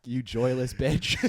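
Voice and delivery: medieval oaf voice. Acted. Jousting fan voice.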